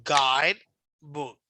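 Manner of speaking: careful demo of GUIDE ... book; stress on GUIDE. Shown as a demonstration. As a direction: lean on "guide" and drop "book" away. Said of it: "So just listen carefully".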